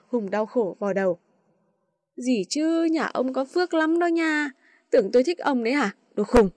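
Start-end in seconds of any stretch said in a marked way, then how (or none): 2.2-6.5 mild irritated scolding; annoyed snap. Acted. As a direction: snap at him through gritted teeth. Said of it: "Trâm nghiến răng".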